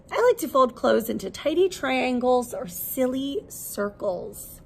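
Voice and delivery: lively, expressive picture-book read-aloud; reading to children. Acted. Teacher reading a laundry picture book to her class, lively storytelling. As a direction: bring the story alive for little listeners.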